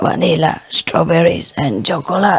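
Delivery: raspy, hoarse voice. Reading a joke aloud, voicing the waiter's reply to a customer: hoarse voice. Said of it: "A hoarse voice waiter say".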